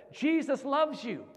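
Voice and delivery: high, slow proclamation; fervent retold declaration. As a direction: proclaim it slowly and earnestly. Retold declaration to crying woman.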